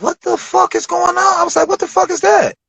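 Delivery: high-pitched incredulous mock reaction; retold bewilderment. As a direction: squeak it high, acting out total bafflement. Retold baffled reaction at card.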